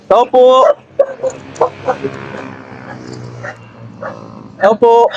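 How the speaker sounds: calling out to the house; calling from far away. Real, not acted. Calling at a house under bridge.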